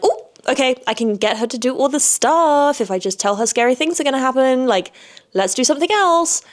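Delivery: a hint of a gleeful schemer plotting; scheming anxiety voice. Anxiety voiced plotting to boss her around, lightly sly. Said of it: "it's gonna be like".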